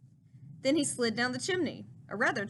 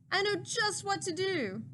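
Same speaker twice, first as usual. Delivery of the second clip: throaty Grinch laugh-talk; 6 semitones higher than usual. A narrator's reading. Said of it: "the Grinch laughed in his throat".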